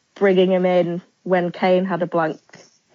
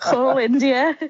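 laughing; 7 semitones higher, 4 dB louder, slower than usual. Real, not acted. Teasing the failed accent.

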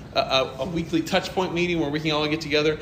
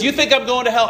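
challenging; 6 semitones higher, 3 dB louder, faster than usual. Retold or imitated. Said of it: "He goes".

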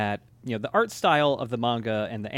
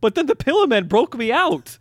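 high, loud goofy dub voice through laughter; cartoonish villain squeak, giggling; Wired Beck voice; 11 semitones higher, 8 dB louder than usual. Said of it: "who talks like fucking Shoes Goose in the English dub".

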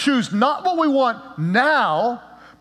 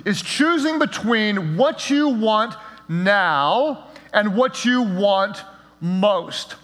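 slow, spelled-out repeat; much slower than usual. Shown as a demonstration. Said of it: "What is discipline?".

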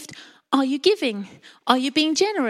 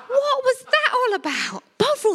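laughing; 10 semitones higher than usual. Real, not acted. Laughing at drinking Bovril.

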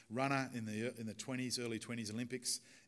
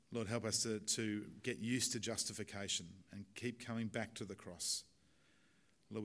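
closing prayer. Acted.

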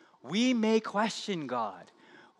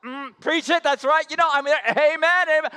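church amen-ing; 7 semitones higher, 4 dB louder, faster than usual. Retold or imitated. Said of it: "and they're like".

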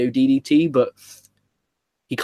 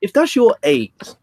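incredulous teasing; 9 semitones higher, 3 dB louder, slower than usual. Real, not acted. Mocking friend's taste.

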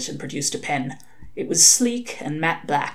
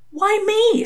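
much higher, desperate plea. A narrator's reading. Crowley begging Hastur to spare him, desperate and high. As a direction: cry it out like a cornered man. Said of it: "said Crowley desperately".

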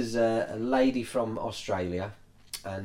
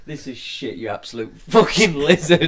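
reading a comment aloud; 5 semitones higher, 9 dB louder than usual. Retold or imitated. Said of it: "YouTube comments are brilliant".

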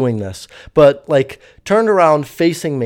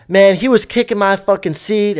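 a higher, louder mock yell; imitating a yell; 5 semitones higher, 3 dB louder than usual. Woman yelling at the stewardess about her seat, mock yell. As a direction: yell the accusation, half-played. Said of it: "is yelling at the stewardess".

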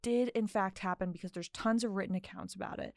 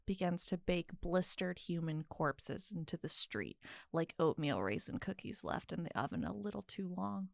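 storytelling voice; 3 dB quieter than usual. Acted. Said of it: "I put on my storytelling voice".

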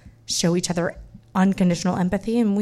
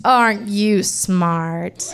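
very slow, drawn-out teasing; sarcastic; much slower than usual. Retold or imitated. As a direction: drag it out, dripping with sarcasm. Clerk mocking the thrown-away license.

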